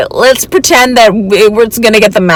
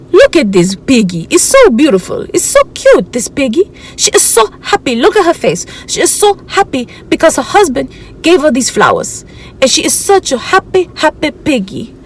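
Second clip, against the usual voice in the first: gushing shopper; 4 semitones higher than usual. Retold or imitated. Voicing the gushing woman shopper.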